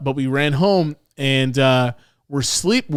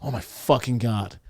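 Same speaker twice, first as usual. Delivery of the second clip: breathless gasp; 3 semitones lower, 7 dB quieter than usual. Retold or imitated. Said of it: "this breath left his body".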